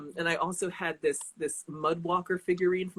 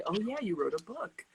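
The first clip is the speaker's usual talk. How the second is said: grandmother remembering; 3 semitones higher, 5 dB quieter than usual. Retold or imitated. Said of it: "she'll say".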